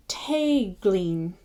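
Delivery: Tegleen, first part TAY like May. Shown as a demonstration. Teacher sounding out Tegleen with a May vowel. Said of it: "sounds like May".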